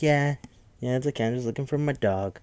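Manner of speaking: a hint of a sweet, vague old lady. Narrator voicing old Missus Paley looking for her dog, lightly old lady. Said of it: "from the old lady side".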